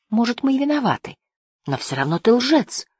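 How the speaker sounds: mildly bitter reproach; narrated bitterness, understated. A narrator's reading. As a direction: start high on the concession, then settle into the accusation. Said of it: "с горечью сказал Лив".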